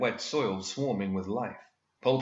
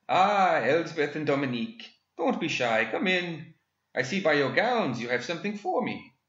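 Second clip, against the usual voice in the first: much higher, fond and gleeful gentleman villain; delighted villain; 7 semitones higher than usual. Acted. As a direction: coo over the dolls like pets. Villain greets his dolls.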